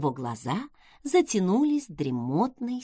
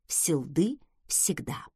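slow unvoiced muttered echo; muttered aside; 6 semitones lower, 5 dB quieter, slower than usual. A narrator's reading. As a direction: mutter it under breath. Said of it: "разглагольствовал он".

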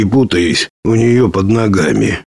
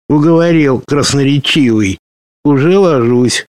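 dragon voice; 6 semitones higher than usual. Acted. Ugolyok gives in.

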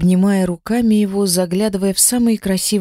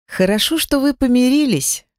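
higher, teary relief; sniffling; 6 semitones higher than usual. A narrator's reading. Wife relieved the family made peace, teary sniffle. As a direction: let the relief catch in your throat. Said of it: "всхлипнула я".

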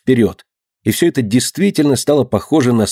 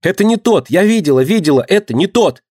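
desperate cry; 8 semitones higher than usual. A narrator's reading. Dinka shields the boy from the crowd, desperate high cry. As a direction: beg them to stop, cry it out. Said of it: "отчаянно кричала она".

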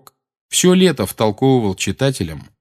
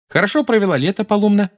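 put-on friendly girl; 11 semitones higher, 4 dB louder, faster than usual. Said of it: "спросила Джинни".

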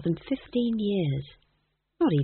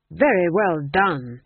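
eager; 5 dB louder, slower than usual. Acted. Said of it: "said King Lorenz eagerly".

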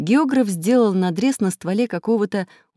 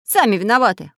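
stern; 5 semitones higher, 4 dB louder than usual. Acted. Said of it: "строго повторил Самоделкин".

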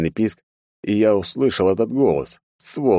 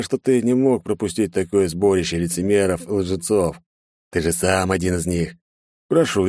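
mocking villain. Villain calls out Ichiro.

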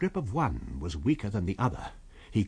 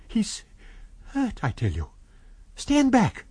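urgent shout; 11 semitones higher than usual. A narrator's reading. Kemp shielding the hurt man, urgent shout. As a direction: hold the mob off. Kemp holding back the crowd.

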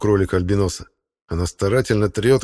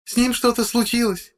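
high woman's voice, a touch of sobbing. A narrator's reading. Wife lamenting her husband as she is led away, tearful high voice. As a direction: lament through tears. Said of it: "рыдает женщина".

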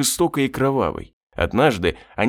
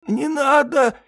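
high, hissed plea from a demon; hissing demon; 13 semitones higher, slower than usual. A narrator's reading. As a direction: hiss it out like a cornered demon. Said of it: "еле слышно прошипел демон".

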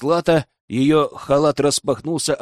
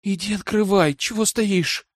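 strained; 6 semitones higher than usual. Acted. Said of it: "сдавленно ответил я".

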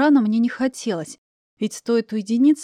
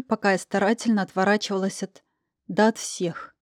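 ordinary delivery, nothing marked

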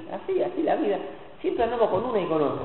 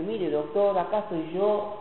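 humble plea; 5 dB quieter than usual. Retold or imitated. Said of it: "y decirle".

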